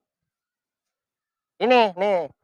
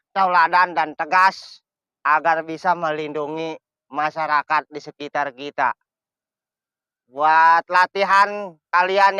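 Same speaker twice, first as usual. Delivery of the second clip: slow, solemn commander address; formal speech; 3 semitones lower than usual. Acted.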